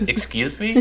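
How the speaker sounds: high caveman yelp; blunt caveman question; caveman talk. Retold or imitated. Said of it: "sound like caveman talk".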